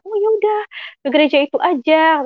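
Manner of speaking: high-pitched, easy reassurance; breezy retold suggestion. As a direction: imitate a friend brushing the worry aside. Friend's breezy advice, retold.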